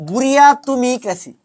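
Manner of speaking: বুড়িয়া তুমি ক্রেসি as separate words; spelling mnemonic. Shown as a demonstration. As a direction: sound out "bu-ri-a, tumi, kra-si". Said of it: "এইভাবে পড়ো, তাহলে দেখবা".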